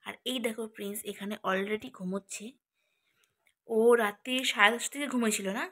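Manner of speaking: hushed late-night voice; speaking softly. Real, not acted. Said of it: "আমি আস্তে আস্তে কথা বলছি".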